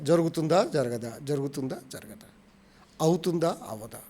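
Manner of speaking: low, quiet back-and-forth questioning; wavering doubt. Acted. Preacher voicing a divided mind to the congregation, doubtful. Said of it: "రెండు ఆలోచనలు వస్తాయి".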